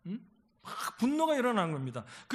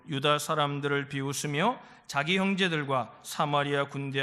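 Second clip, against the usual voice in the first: low, even reading-aloud voice; scripture reading; 5 semitones lower than usual. Real, not acted. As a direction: read the passage out low and steadily. Reads scripture aloud to congregation.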